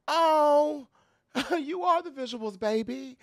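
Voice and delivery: high, sweet and encouraging. Retold or imitated. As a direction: say it sweetly, as if to build someone up. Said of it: "could have been saying it to be sweet".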